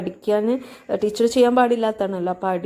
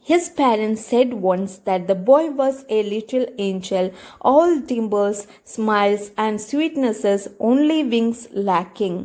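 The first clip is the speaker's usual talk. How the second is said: slow, careful reading of the passage; slow reading aloud; much slower than usual. Shown as a demonstration. Teacher reading the story slowly to students. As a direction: read it out slowly for the class.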